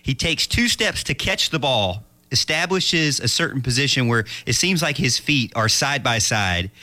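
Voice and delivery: play-by-play call; frantic mock sports commentary. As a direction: call it like a live broadcast. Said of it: "I'm practicing my play-by-play".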